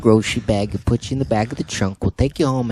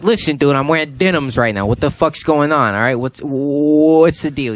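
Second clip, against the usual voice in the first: exasperated retold rant; 5 semitones higher, 7 dB louder than usual. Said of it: "He's like".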